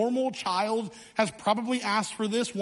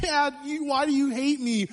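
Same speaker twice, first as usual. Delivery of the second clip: put-on higher, whining child's wail without real tears; hammed-up hurt little boy; a boy accusing his dad over the bike, mock sobbing; mock crying child; 5 semitones higher than usual. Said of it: "I burst into tears".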